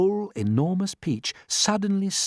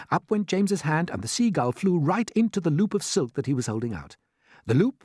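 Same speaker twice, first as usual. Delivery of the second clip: usual speaking voice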